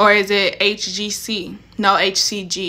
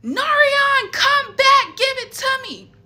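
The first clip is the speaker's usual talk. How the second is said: much higher, desperate mock plea; frantic calling; slower than usual. Sister begging brother Norian to bring the test back, high and frantic. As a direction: call after him high and frantic.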